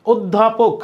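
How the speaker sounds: "অধ্যাপক" as od-dha-pok, opening on O; O-like first vowel. Shown as a demonstration. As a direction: double the dh sound in "অধ্যাপক". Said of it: "ও এর মতো".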